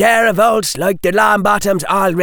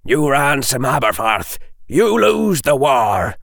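sharp; 4 semitones higher than usual. Acted. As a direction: cut him off, blunt and firm. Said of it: "the man said sharply".

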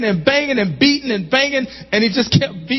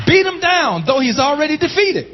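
preached title; 7 semitones higher than usual. Shown as a demonstration. Preacher proclaiming his sermon title, high and ringing. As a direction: drive the title home to the church. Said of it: "the title of this message".

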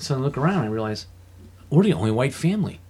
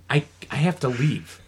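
mock fear; 3 semitones higher, 4 dB louder, slower than usual. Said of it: "I'm afraid".

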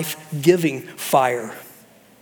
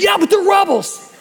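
high, louder whining protest; indignant Jonah; 13 semitones higher, 5 dB louder than usual. Retold or imitated. Jonah protesting to God about the rebels, indignant. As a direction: object like a sulking prophet. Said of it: "Jonah's like".

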